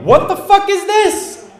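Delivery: high, loud, slow angry shout; furious confrontation. Retold or imitated. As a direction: shout the discovery, drawn out. Girlfriend confronts him over texts.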